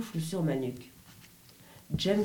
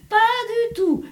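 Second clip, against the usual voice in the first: much higher, louder laughing denial; 9 dB louder, slower than usual. Acted. Brother laughing off the question of jealousy, laughing. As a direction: laugh it off, brushing the idea aside. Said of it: "répondit-il en riant".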